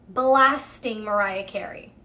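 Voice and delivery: "Blasting" stretched long and slow; emphatic repetition. Real, not acted. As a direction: hit "Blasting" hard and draw it out. Repeats it for emphasis.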